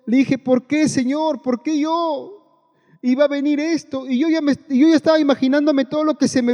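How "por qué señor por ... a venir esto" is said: angry protest. Retold or imitated. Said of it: "Y me enojé con Dios".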